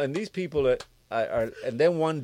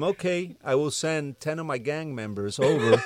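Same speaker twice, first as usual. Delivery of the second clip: louder, cool menacing warning; mock gangster threat; 4 semitones higher, 9 dB louder than usual. The songwriter threatens the label boss, hood and menacing. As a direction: lean in like a gang tough.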